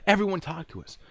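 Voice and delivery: high, loud comeback; exasperated retort. Retold or imitated. Agent rebuts the worried witness, exasperated retort.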